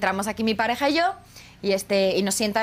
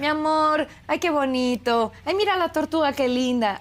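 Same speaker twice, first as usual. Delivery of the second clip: put-on gently gushing over a child; doting mom; 4 semitones higher than usual. Mother on video call admiring daughter's tortoises, gently doting. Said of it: "hablando así en este tono".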